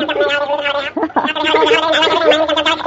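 light happy laugh; relieved laugh. Acted.

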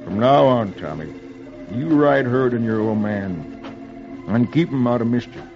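low, measured fatherly musing; thoughtful. A narrator's reading. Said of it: "Hardy says thoughtfully".

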